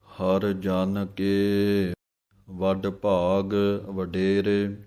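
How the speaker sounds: slow, measured chant-like reading of scripture; gurbani recitation. Acted. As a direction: recite each phrase slowly and devoutly.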